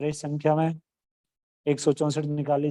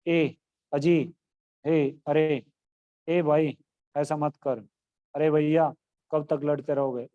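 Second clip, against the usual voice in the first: calling out. Shown as a demonstration. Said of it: "किसी को पुकारना".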